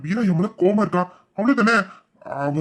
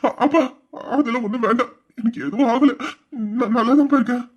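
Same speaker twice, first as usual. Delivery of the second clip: tearful reassurance; 3 semitones higher than usual. Acted. Son tells worried father he is fine, tearful. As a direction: reassure him through held-back tears. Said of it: "எதுக்கு அழுகுற?".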